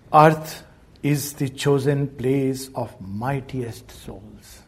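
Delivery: slow, solemn recitation of a verse line; reciting a poem line. Shown as a demonstration. Teacher slowly reciting a verse line to listeners. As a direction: draw out the line like sacred verse. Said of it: "Just a few lines about that".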